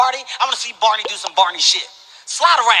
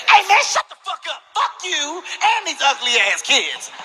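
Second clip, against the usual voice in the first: mock snapping; 6 semitones higher than usual. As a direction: snap back like a thug. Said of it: "He snapped on me".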